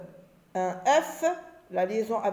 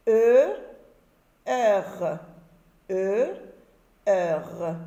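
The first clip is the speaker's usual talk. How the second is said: clear, loud letters, each one on its own; loud letter drill; much slower than usual. Shown as a demonstration. Teacher to pupils, calling out letters loudly. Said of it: "On va lire ici".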